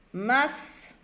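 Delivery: MASQUE split into "mas", long pause, "que"; syllable by syllable. Shown as a demonstration. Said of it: "relier chaque syllabe". (« masque » découpé : « mas... que »)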